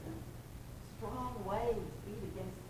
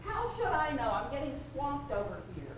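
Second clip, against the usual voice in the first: higher and louder, frantic shout back; yelling back over storm; 6 semitones higher, 6 dB louder than usual. Retold or imitated. John answering the others over the storm, frantic yell. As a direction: shout it over the roaring wind. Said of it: "John screams back over the storm".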